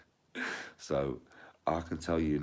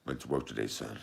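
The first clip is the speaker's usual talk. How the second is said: lightly voiced film dad; 4 semitones lower, 4 dB quieter than usual. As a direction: do the dad, low and drawled out. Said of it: "His dad, when he's watching that".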